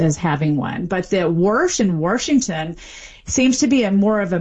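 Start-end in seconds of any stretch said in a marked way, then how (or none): 1.3-2.8 Warsh and Washington with an R before the sh; R-coloured vowel in Warsh and Washington; intrusive R. Shown as a demonstration. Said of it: "inserted there as if there were an R".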